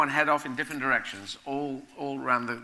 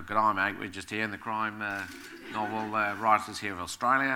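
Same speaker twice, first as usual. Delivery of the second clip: put-on lower-pitched, casual Australian accent; mock Australian accent; 3 semitones lower than usual. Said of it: "or Australian people going".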